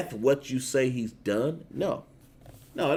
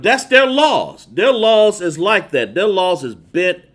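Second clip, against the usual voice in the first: loud preaching; 3 semitones higher, 5 dB louder than usual. Real, not acted. Preacher exclaims loudly.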